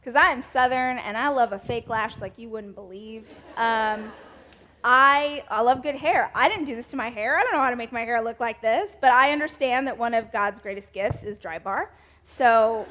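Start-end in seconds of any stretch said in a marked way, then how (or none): none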